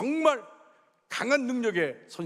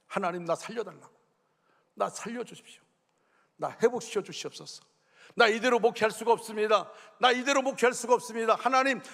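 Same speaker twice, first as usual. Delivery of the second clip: retold desperate prayer; 2 semitones higher than usual. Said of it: "하나님께 외쳤습니다".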